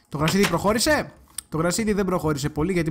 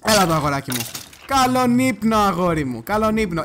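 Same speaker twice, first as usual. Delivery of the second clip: mock-sweet bedtime taunt, loud and lilting; 3 semitones higher, 4 dB louder than usual. Real, not acted. Player to the skeleton being killed, taunting. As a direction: taunt a beaten foe with a singsong goodnight.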